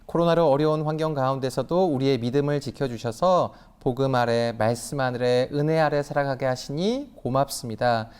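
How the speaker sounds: steady, devout prayer voice; earnest prayer. Real, not acted. Offering prayer at service. (간절한 기도)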